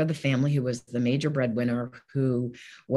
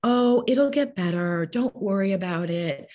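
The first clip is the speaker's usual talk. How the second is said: mock reassurance; 5 semitones higher than usual. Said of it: "who wasn't going to say".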